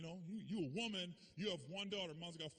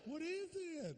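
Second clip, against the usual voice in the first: higher, curious mom; mom's voice; 10 semitones higher, much slower than usual. Retold or imitated. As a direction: mom asks her son, higher voice. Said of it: "mom answering".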